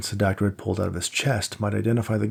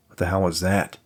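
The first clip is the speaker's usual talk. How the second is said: note of fear. Acted. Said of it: "a note of fear creeping into his voice".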